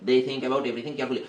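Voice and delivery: even, rote repetition with words run together; fluent reading drill. Shown as a demonstration. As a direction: build the sentence up through steady repeats. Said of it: "এরকম স্পিডে পড়তে পারতেছো".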